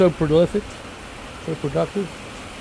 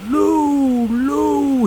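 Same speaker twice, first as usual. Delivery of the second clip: put-on Lou, called higher as the old professor; lightly voiced professor calling out; imitating professor; 9 semitones higher, 3 dB louder than usual. Professor correcting his student, a higher imitating call. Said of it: "he would say".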